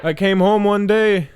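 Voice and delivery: hammed-up zealot voice, swaggering and gleeful; brash jihadi caricature.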